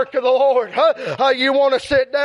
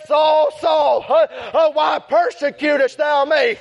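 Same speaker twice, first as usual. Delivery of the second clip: voice of the Lord. Retold or imitated. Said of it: "the Lord come by Saul, and said".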